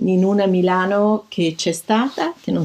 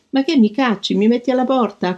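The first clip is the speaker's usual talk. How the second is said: half shout; 5 semitones higher than usual. Retold or imitated. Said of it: "quasi gridò al critico".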